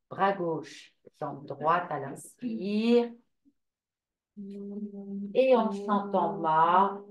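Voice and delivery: slow, drawn-out yoga guidance; unhurried movement cues with long vowels; guided yoga instruction. Real, not acted. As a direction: stretch the words to pace the breathing.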